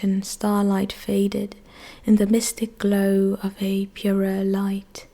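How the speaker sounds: steady, lyrical verse reading; poetry recitation. Acted. Reciting a poem of a nightingale's night song, measured recitation. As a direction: recite in long, measured lines.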